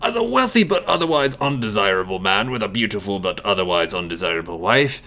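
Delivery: put-on snooty aristocrat voice; haughty upper-crust character voice; snotty aristocrat. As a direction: talk down like a snobbish aristocrat. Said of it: "turned to snotty aristocrat Rutherford P".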